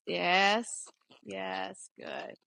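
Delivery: gently reward the mare; hushed low praise to a horse. Real, not acted.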